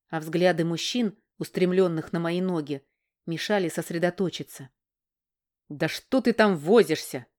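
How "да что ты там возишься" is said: impatient anger. Acted. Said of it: "вскипел от ярости и нетерпения".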